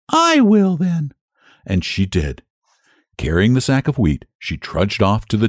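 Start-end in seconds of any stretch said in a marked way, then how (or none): 0.1-1.1 much higher, slow resigned hen. Acted. Hen resigns herself to the work, high slow voice. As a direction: say it with no other choice. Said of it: "could do nothing but say".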